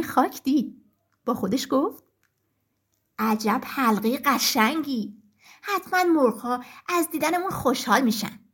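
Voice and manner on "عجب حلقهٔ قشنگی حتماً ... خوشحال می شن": rooster delighted by the ring, lower voice; admiring rooster. Acted.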